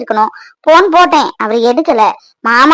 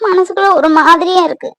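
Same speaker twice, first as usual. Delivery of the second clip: tearful; 2 semitones higher than usual. Acted. Wife hurt, husband not calling.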